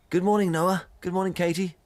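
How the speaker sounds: bright high sing-song good mornings; a headmaster's cheerful hallway hello; cheery principal. Retold or imitated. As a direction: greet the kids like a chirpy headmaster. Principal greeting kids cheerily.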